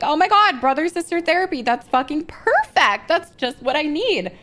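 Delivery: oversell the delight, dripping sarcasm; mock excitement. Telling her friend how she faked joy at therapy, mock gushing.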